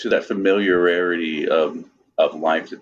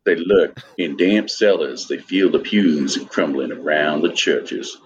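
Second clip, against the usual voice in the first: put-on reading aloud in a light Southern accent; casual Southern accent reading a comic. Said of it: "I kept reading it in my southern accent".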